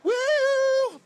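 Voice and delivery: high, loud whoop; excited whoop. Real, not acted. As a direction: cheer with a big whoop. Host cheers the poster.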